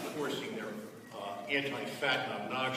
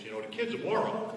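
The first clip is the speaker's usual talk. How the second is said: laughing through quote; 10 semitones higher, 5 dB louder than usual. Retold or imitated. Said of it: "He turns to my father and says".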